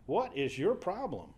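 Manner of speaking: half-laughing mock exasperation with the woman; a light, amused jab, as if rolling your eyes; exasperated modern paraphrase. Preacher jokingly voicing the angel scolding Hagar, amused exasperation. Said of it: "read it like we might think of it today".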